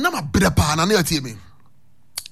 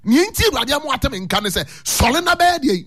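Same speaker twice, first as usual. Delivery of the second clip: impassioned preaching; 7 semitones higher than usual. Acted. Preacher raising voice, heard shout.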